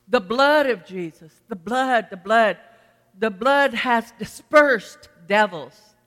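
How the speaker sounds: loud, punched repeats with drawn-out final phrase; forceful proclamation. Real, not acted. Preacher declaring the blood over devils, forceful proclamation.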